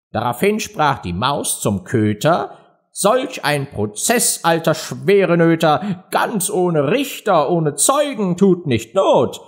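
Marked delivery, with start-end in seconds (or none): 2.9-9.4 high, slow little mouse voice; protesting mouse. Acted. Mouse argues with the dog about a trial, protesting. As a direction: object slowly in a high verse voice.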